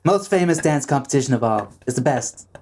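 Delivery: lightly parodied presidential hype; Donald Trump impression. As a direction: sell it in repeated superlatives. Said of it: "That's my Donald Trump impression".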